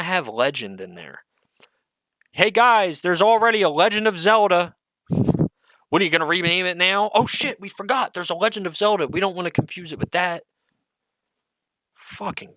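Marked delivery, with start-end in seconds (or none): 2.3-10.4 sarcastic higher voice playing clueless execs; mock studio execs. Mocking the studio bosses who forgot about Zelda, sarcastic higher voice. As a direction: mimic the studio, hammed-up and higher.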